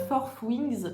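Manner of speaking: Fourth Wings said with a clumsy French-accented English; English title read in a plain French accent. Real, not acted. While naming a book to her viewers, French-accented English. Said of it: "je suis navrée pour mon accent anglais".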